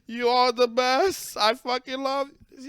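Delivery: mock gushing fan, slowed; hammed-up adoring fan, drawn out. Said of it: "just be like".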